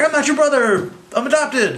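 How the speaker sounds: high-pitched bratty outburst; hammed-up sibling squabble; mock petulant retort. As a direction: protest shrilly like a sulky brother. Voicing Loki arguing back.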